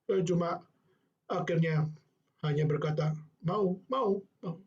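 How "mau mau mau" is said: put-on meek child. Child agreeing meekly.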